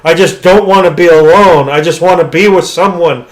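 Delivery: acted-out desperate plea; mock pleading. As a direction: plead like the desperate monster, without real tears. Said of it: "crying and begging".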